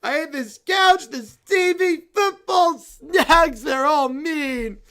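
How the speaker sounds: whining heartbroken bear fan; sulky whine. Acted. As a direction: mope and whine like a child losing. Bear sulks after crying.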